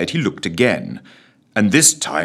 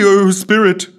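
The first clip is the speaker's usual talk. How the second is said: high squeaky cry; frightened squeak; 11 semitones higher, 7 dB louder than usual. A narrator's reading. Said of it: "squeaked Scrooge".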